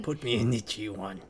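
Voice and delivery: low, soft, menacing mock Russian accent. Cohost imitating the wrestler's threat, mock Russian accent. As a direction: growl it like a Russian heavy, quietly. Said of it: "That's like a Russian accent".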